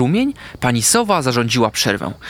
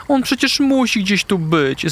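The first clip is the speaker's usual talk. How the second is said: anxious call; 8 semitones higher than usual. A narrator's reading. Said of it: "zawołała".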